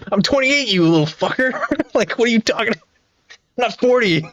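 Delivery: high, laughing mock outrage; amused indignant retort; laughing protest. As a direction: protest through laughter that you're not forty. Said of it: "I'm like".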